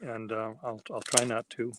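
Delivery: on the verge of tears. Real, not acted. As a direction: voice lifting, fighting back real tears. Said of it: "I'm about to cry".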